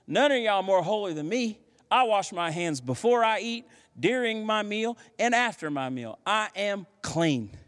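smug boast. Retold or imitated. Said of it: "he is smack talking".

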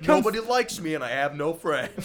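laughing. Pretend. Mock host while laughing.

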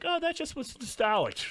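mocking mom voice. Quoting moms, mocking.

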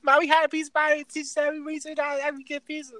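a hint of a child reporting to mom; kid voice. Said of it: "this is how kids talk".

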